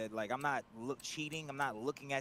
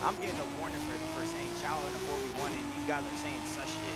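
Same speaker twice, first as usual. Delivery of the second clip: indignant rant; 13 semitones higher than usual. Real, not acted. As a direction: voice pitched way up in indignation. Venting about unfair warning.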